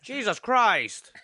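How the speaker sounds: slow, drawn-out exclamation; mock dismay. Friend seeing the mark on himself, drawn-out mock dismay. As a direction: stretch out the curse in disbelief.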